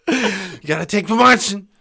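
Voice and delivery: mock rapper. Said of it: "That's what it sounds like".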